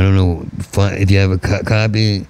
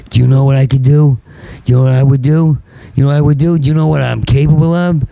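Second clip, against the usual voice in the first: building rant; 5 semitones higher, faster than usual. Real, not acted. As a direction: hammer the question home.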